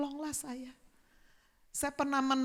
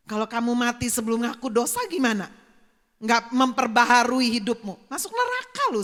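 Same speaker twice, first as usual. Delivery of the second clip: stern warning; 6 dB louder than usual. Retold or imitated. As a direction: build up to warning him of hell. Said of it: "saya bilang".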